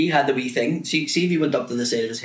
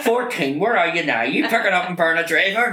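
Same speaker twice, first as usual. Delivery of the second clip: higher, mock radio-controller call; pretend taxi dispatcher; 5 semitones higher than usual. Pupil pranking teacher from the cupboard, mock dispatcher.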